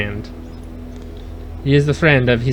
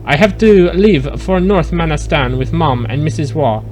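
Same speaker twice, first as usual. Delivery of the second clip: put-on French accent. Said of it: "You didn't like my French accent?".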